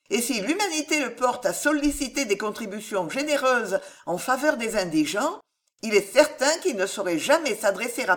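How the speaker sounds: lightly voiced young woman defending someone; reply with composed conviction; lightly acted earnest defence; principled young heroine.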